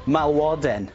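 Malwoden said in Welsh as mal-WO-den, rolled and clear; Welsh pronunciation. Shown as a demonstration. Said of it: "What's Welsh for snail?".

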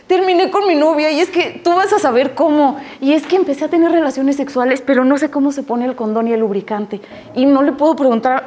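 voz más aguda de chavo angustiado; adolescente que pide ayuda. Retold or imitated. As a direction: como un adolescente que suelta todo de golpe. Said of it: "Es que los teens". (adolescente en el gimnasio contándole sus problemas a la psicóloga, agobiado)

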